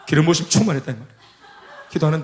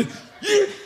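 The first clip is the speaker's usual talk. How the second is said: mock angry yelp; 13 semitones higher than usual. Senior reacts again.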